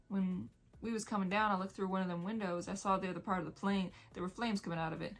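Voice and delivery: put-on light rural English accent for the fat boy; English country accent. Voicing the fat boy in the novel, lightly in an English country accent. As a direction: let a mild country English accent slip in. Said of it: "My country accent came, accent came out so easily".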